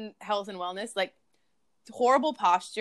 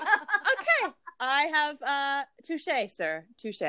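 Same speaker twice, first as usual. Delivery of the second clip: laughing concession; 4 semitones higher, much slower than usual. Retold or imitated. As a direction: giggle through the words.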